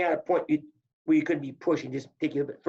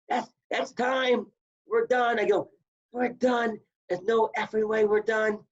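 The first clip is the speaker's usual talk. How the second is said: higher and slow, outraged disbelief; angry protest; 5 semitones higher than usual. Retold or imitated. Wrestler protests to the coach that time is called, indignant. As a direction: protest the call like you've been robbed.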